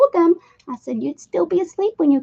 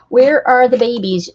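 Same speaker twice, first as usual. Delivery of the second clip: calling out; 8 dB louder than usual. Real, not acted. Calling for kittens loudly.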